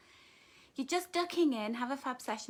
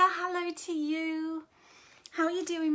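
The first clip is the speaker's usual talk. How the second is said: ordinary talk, nothing marked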